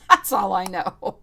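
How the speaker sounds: giggling through the words; laughing. Real, not acted. Tarot reader laughs off her own answer, laughing.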